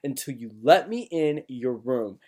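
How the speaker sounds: a retold high, tearful plea; imitating crying pleading. Scared kid on the phone pleading with his brother, mock tearful.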